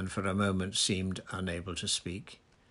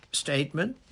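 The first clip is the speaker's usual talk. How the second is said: drawn-out, higher questioning word; slow, puzzled echo; 7 semitones higher, 4 dB louder than usual. A narrator's reading. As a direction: repeat it slowly, not understanding. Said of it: "said Fudge slowly".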